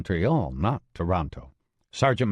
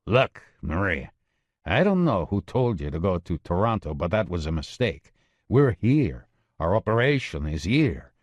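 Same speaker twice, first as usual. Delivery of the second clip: gravelly voice. Acted. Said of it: "he said in his gravelly voice".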